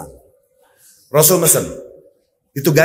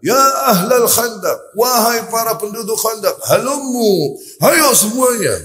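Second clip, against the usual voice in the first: calling out; 7 semitones higher, slower than usual. Retold or imitated. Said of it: "Rasul berteriak sekuat tenaga".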